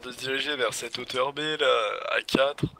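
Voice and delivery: commentaire suave et séducteur; voix suave. Pretend. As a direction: susurre l'action comme un charmeur. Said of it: "reprends avec ma voix suave". (voix suave de commentateur)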